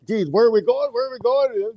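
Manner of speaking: high, anxious kid whine, acted; mock worried child repeating the question; panicked nagging. Son worried he is getting a needle, panicked. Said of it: "he was still all panicked about".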